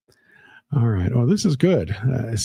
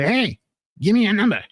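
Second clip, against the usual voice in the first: flirty voice; 8 semitones higher than usual. Pretend. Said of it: "have her go".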